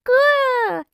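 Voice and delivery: loud high playful growl; dinosaur growl. Acted. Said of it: "cheered George".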